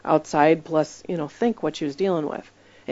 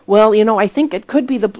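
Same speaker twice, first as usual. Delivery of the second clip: imitating the lady; 4 semitones higher, 7 dB louder than usual. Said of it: "So I said".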